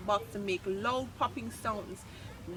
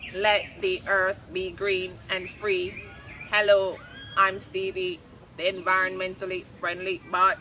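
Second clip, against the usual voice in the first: mechanical voice; 5 dB louder than usual. Acted. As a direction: speak like a machine booting up. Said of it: "he said in a mechanical voice".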